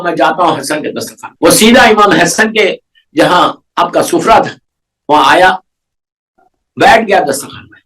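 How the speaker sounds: measured storytelling voice of a preacher; religious story narration. Acted. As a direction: tell the story calmly to the congregation. (مذہبی قصہ گوئی کا انداز)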